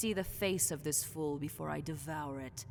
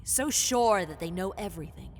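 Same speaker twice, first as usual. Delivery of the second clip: loud contempt; 9 dB louder than usual. Acted.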